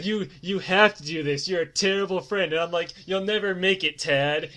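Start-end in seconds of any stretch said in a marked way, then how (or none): 0.0-2.5 insistent retold protest, a bit louder; mock indignation. Retold quarrel, friend pleading angrily. 3.0-4.5 retold scornful put-down, louder; mock scorn. Retold quarrel, scornful reply.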